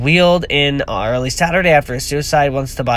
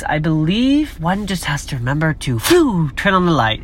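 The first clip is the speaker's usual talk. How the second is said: Albus Dumbledore; 2 semitones higher, slower than usual. Retold or imitated. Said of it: "in the words of Albus Dumbledore".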